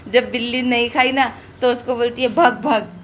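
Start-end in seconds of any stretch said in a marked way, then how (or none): 2.3-2.9 mock angry shooing. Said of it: "उज़मा को गुस्सा आ गया था".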